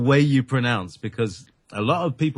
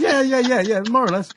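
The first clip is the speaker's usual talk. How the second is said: amused agreement; 13 semitones higher, 4 dB louder than usual. Real, not acted. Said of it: "I sound like an Irish kid".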